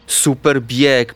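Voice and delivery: ordinary delivery, nothing marked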